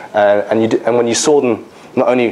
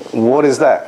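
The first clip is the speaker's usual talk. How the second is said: higher, mock-incredulous question; disdainful challenge; 4 semitones higher, slower than usual. Professor eyeing the resident's ultrasound machine, disdainful challenge. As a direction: imitate an affronted senior doctor.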